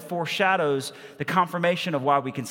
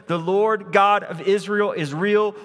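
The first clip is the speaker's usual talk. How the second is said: "the Lord God of Israel is real" called out louder, God stressed; louder exclaimed; 5 semitones higher, 4 dB louder than usual. Acted. Mother proclaiming to Elijah, louder excited "God". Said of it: "she sees".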